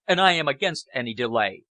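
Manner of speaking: mild heated outburst against delay; hot objection. Acted. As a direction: object hotly and cut in. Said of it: "Fenn objected hotly".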